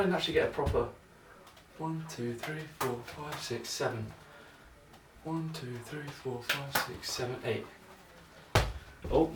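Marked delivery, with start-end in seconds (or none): 1.8-7.7 counting under breath. Real, not acted. Counting juggling catches under breath.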